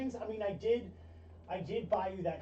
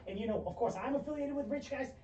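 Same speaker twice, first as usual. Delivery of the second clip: excited agent. Acted. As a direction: gush about the new job. GM voices Vincent on call.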